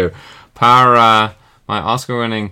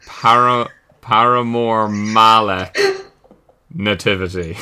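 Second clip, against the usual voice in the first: slow, halting word by word, with a pause before Nativity; slowly piecing together; slower than usual. Real, not acted. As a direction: work out the answer as you speak. Piecing together the punning answer.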